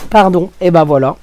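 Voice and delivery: coughing after swallowing wrong; throat catching, just choked on a drink; swallowed wrong. Real, not acted. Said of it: "en plus j'avale de travers".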